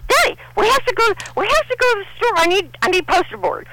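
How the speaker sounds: put-on high, pleading little girl; whiny child. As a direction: beg like a small child. Child begging her father.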